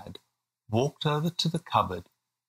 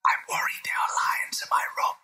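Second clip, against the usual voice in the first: worried little William; faster than usual. A narrator's reading. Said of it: "said William from under his duvet".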